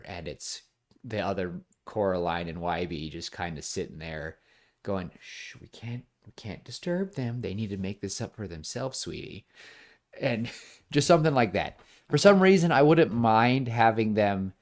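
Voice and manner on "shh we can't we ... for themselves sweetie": soft, much quieter shushing voice; hushing. Retold or imitated. Other Coraline hushing the real Coraline, much softer. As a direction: hush her gently so the parents can't hear.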